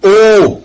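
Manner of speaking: sustained high O, as a demonstration; long O. Shown as a demonstration. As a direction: draw out the vowel O, then drop. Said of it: "la formation de certaines voyelles longues".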